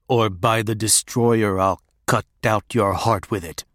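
put-on choked, menacing old hermit; strangled voice. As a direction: squeeze the threat out through a tight throat. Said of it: "said in his choked voice".

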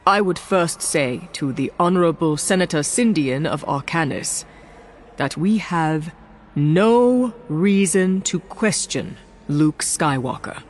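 lightly voiced solemn statesman; calm, measured and serious; grave senator. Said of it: "let his grave tone".

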